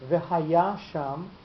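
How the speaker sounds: v'haya sham slowly, stressing ya right against sham; two accents side by side. Shown as a demonstration. Teacher showing the form to avoid, v'haya sham with clashing stresses on ya and sham. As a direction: put the accent on the ya of v'haya, just before sham. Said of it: "you can't have two accented syllables".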